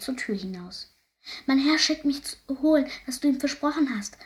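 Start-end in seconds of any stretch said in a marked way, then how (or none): 1.5-4.2 higher, raised voice calling out a message; zurufen. A narrator's reading. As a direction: call it out to the farmer, mildly urgent. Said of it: "rief er dem Bauern zu". (lauter, höher Zuruf)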